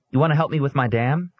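put-on boy calling across the yard, high; young boy inviting the neighbor girls. A narrator's reading. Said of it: "David called to them".

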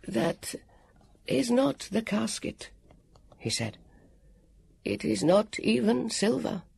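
high, slow, gentle; sad warrior. Acted. The warrior telling Elio the egg is fake, high and slow. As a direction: break the news kindly.

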